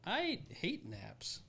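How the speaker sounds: slow, stretched high whine; drawn-out complaint. Real, not acted. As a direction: drag out the dislike of naps. Declaring dislike playfully.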